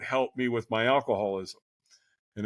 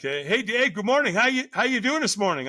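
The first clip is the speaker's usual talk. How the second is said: higher, louder cheery hello; overly upbeat early call, much higher; chipper morning greeting; 11 semitones higher, 4 dB louder than usual. Retold or imitated. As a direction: greet him like a sponsor far too awake. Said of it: "And he's like".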